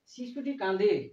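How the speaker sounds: drawn-out example sentence at half speed; slow model reading. Shown as a demonstration. Teacher reads the Bengali example to beginner students, slowly. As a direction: read it out slowly for learners.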